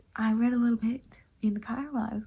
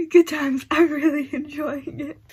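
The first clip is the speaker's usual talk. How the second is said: loud, slow, laughing delight; laughing happily; 6 semitones higher, 11 dB louder, slower than usual. Real, not acted.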